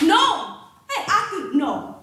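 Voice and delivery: loud, high protest; shouting no. Acted. Wangari shouting at the officer to stop, loud. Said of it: "Wangari shouts".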